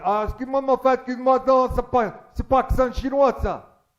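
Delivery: put-on high, loud protest in caricature Japanese accent; indignant old man, hammed-up Japanese accent; mock Japanese accent. Old Japanese man objecting from the back, mock Japanese accent. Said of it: "un problème avec un vieux japonais".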